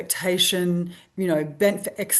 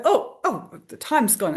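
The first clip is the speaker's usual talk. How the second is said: startled realization; 4 semitones higher than usual. Retold or imitated. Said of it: "he was like".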